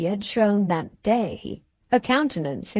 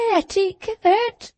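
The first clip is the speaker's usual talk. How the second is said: high, tearful disbelief; tearful cry; 10 semitones higher, slower than usual. A narrator's reading. To the doctor, wife repeats his word in tearful disbelief. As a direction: echo the word through tears.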